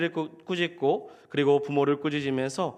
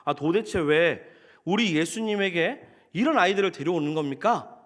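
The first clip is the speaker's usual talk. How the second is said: mildly indignant disciples' rebuke; acted-out reproach, mildly forceful; imitated scolding. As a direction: scold the parents with an exasperated question. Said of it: "제자들의 꾸짖음은 이런 표현이지 않을까요".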